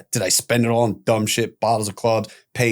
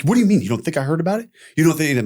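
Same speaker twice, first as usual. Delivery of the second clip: angry father; 4 semitones higher, much faster than usual. Retold or imitated. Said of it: "He's like".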